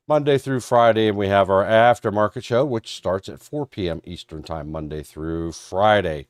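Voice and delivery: talking through a head cold; blocked sinuses, plugged ear; stuffed-up nose. Real, not acted. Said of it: "If it sounds like I'm stuffed up".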